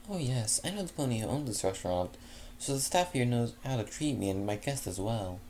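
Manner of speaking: a hint of a refined, kindly hostess; gracious unicorn lady, lightly voiced; Fleur's voice. Fleur talks to Ozzy.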